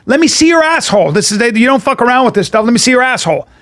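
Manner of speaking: acted-out impatient order; imitated insistent father. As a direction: insist like a father overruling his son. Acts father insisting over son's refusal.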